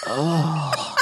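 quiet mock groan; guttural groan. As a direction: groan like just woken. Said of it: "guttural, like, either yawn or sigh".

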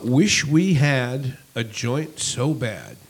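slow flat robotic reading. Shown as a demonstration. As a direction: read it like a robot. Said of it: "read it in kind of a robotic voice".

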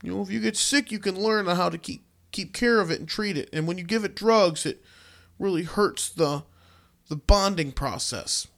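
put-on small child voice, hesitating toward the end; eleven-year-old child. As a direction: recite earnestly like a schoolkid quoted in the paper. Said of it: "who is eleven years old".

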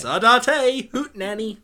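white person impression. Shown as a demonstration. Co-host asked to say it white, hammed-up white-person voice. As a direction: say it like a stereotypical white guy. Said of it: "now say it like a white person would".

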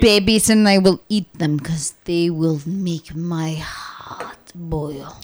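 Svetlana voice. Retold or imitated. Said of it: "When Svetlana says".

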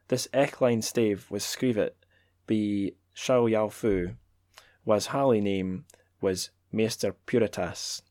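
measured, declaiming read of a Scots poem; poetry reading in Scots. Acted. Reading Scots poetry to listeners, lightly declaimed. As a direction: read the Scots verse aloud with relish. Reads Scots translation aloud.

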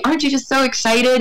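lightly put-on eager question; mock excitement. Other people projecting onto a new mom, mock excited. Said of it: "other people project onto you".

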